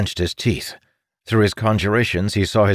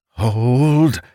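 shouted command; 4 semitones higher, 4 dB louder than usual. Acted. Battle command in fight.

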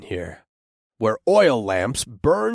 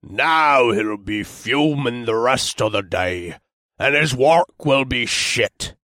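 gruff dwarf voice. Acted. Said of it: "in a gruff voice".

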